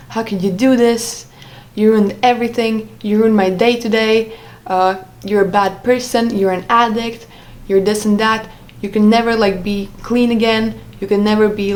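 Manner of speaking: mildly heated imitation of an accusing partner; retold angry outburst. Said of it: "freaking out".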